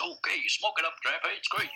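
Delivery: hammed-up Jimmy Stewart impression, pitch leaping up; mad Jimmy Stewart. Director encouraging Trevor in a mad Jimmy Stewart voice. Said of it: "He talks like Jimmy Stewart".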